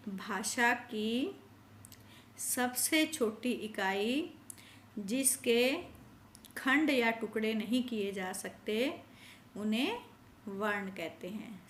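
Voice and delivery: slow, spaced-out phrase by phrase for the class to repeat; slow dictation for repeating. Shown as a demonstration. Teacher asks the class to repeat after her, slow and spaced. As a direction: lay out each phrase slowly so children can echo it. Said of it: "सब मेरे पीछे बोलिए".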